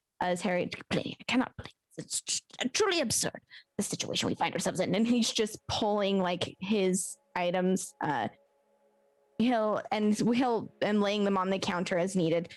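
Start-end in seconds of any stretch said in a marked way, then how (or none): 0.9-4.9 muttering, grumbling under the breath. Voicing Harry complaining to Pliny on his shoulder: muttering under his breath. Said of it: "still actively muttering and, like, under his breath".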